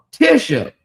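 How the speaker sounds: a hint of slurred Tisha; lightly mocked lisp on Tisha; mocking lisp. Vlogger imitating a TV wife's speech, lightly slurred. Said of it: "she talk like that".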